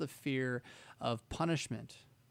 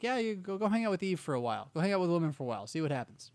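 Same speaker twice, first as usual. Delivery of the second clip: mock casual God; 2 semitones higher, faster than usual. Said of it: "God's gonna be like".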